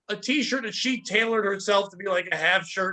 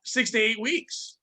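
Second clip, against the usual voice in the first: slow deadpan; slower than usual. Retold or imitated. Deadpan reply to flirt.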